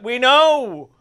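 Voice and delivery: high, dramatic lament; mock long-suffering cry. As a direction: wail it like a hammed-up sufferer. Voicing long-suffering gay people's answer.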